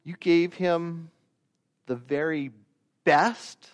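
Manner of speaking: mock outrage at the father's treat; indignant son. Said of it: "I can sort of hear this tone".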